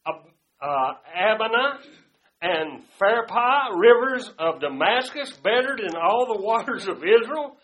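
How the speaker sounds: loud, indignant outburst; angry protest. Acted. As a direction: Naaman fuming at the prophet. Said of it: "he gets mad and says".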